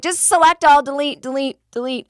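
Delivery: high, loud urgent command; impatient urging. Retold or imitated. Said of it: "And I was like".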